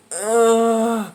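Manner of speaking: long mock groan; imitated dazed groan. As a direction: groan like lifting your face off concrete. Imitates dazed friend lifting face.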